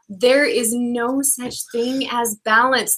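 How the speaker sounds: slow, insistent "no such thing as balance"; real emphatic insistence, unhurried. Real, not acted. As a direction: declare it word by word, drawn out.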